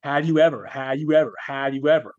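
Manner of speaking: insistent repeated "Have you ever"; reciting litany. Retold or imitated. Inner voice reciting horrific acts, insistent litany. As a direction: hammer "ever" the same way each time. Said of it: "Just reciting itself".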